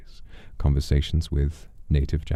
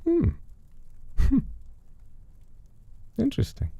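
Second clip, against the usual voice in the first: amused interest; 4 dB quieter than usual. Acted. Narrator amused.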